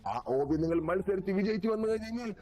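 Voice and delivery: high, slow showy announcer. Acted. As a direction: announce the contest grandly. Announcer voice for island.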